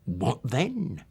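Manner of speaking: slow, wheedling Cockney lisp; slow, insinuating old-man lisp; Fagin's Cockney lisp. Acted. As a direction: coax it out like a sly old fence. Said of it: "The Cockney Jewish lisp of Fagin".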